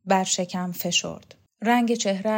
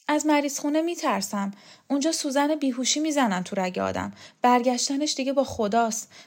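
much higher, anxious pleading; fearful old woman; 6 semitones higher, 4 dB louder than usual. Acted. Rokhsareh tells Teymur she fears the hospital, higher and anxious. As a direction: voice her dread of the hospital.

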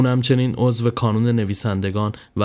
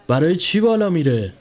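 surprised question; 6 semitones higher than usual. A narrator's reading. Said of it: "با تعجب پرسید".

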